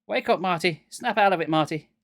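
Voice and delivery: loud urgent shouting. A narrator's reading. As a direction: shout him awake. Shaking friend awake.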